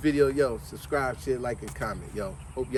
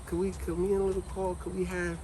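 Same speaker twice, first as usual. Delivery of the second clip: put-on nervous kid; 2 semitones higher than usual. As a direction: stumble through the ask like a scared child. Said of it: "You're so nervous".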